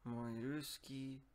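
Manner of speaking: ordinary talk, nothing marked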